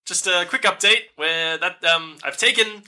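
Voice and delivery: lightly voiced nervous captor; Alyssa over the stone.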